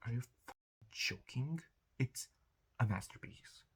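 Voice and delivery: breathy whispered reverence; hushed whisper. Real, not acted. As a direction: whisper it like a secret. Whispered aside about favorite movie.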